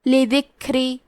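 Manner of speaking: لذکری with breath released on the ک; لذکری with a soft, breathy ک; softly recited لذکری, breathy ک; hams on kaf. Shown as a demonstration. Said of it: "تو ہم یہ کلمہ کو ایسے پڑھیں گے".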